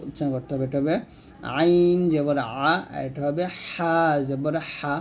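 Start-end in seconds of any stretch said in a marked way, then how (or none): 1.6-2.7 slow, stretched "আইন", "আ" from mid-throat; mid-throat letter. Shown as a demonstration. Teacher modelling for learners, "আইন" slow from mid-throat. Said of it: "আইনটা হলকের মাঝখান থেকে". 3.6-5.0 slow "হা" breathed from mid-throat; mid-throat letter. Shown as a demonstration. Teacher modelling for learners, "হা" from mid-throat. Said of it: "হাটাও হলকের মাঝখান থেকে".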